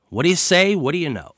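lightly imitated catchphrase, starting high; a hint of a mobster pal, high then dropping; Paulie Walnuts. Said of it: "As my friend Paulie Walnuts used to say".

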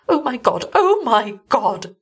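high, trembling panic; panicked. A narrator's reading. Trembling wife realises she was bitten, panicking. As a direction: tremble out the words in terror.

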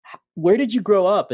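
usual speaking voice

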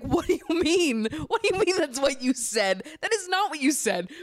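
can't believe what she's hearing; incredulous. Retold or imitated.

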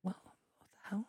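whispered what the hell. Real, not acted. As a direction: breathe it out in disbelief. Whispered reaction.

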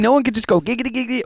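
Quagmire voice. Retold or imitated. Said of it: "I kinda just did".

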